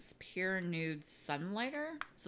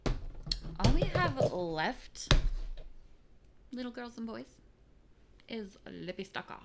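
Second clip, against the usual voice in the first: mock storyteller; 4 semitones higher, 5 dB louder than usual. Storyteller address to children.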